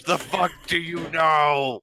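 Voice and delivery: mock yell. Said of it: "starts yelling in gnomish".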